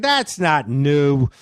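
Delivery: slow, drawn-out contradiction; imitated dismissive taunt. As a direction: stretch the words to needle him. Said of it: "he would taunt me".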